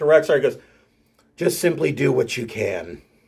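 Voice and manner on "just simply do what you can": hushed, close, sideways half-whisper. Voicing a character leaning over to another: half-whispering in character. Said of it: "he kinda leans over and he whispers to".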